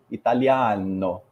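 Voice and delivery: "italiano" drawn out with a wide-open A; slow "italiano", big open stressed vowel; open Italian vowel. Shown as a demonstration. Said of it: "You open your mouth".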